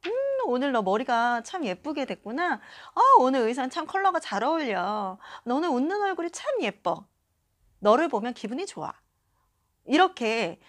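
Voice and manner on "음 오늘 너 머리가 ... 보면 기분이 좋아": lightly admiring, offering small praise; acted-out casual compliment to a friend; friendly compliment. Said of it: "사소한 칭찬 한마디". (다정하게 칭찬하는 말투)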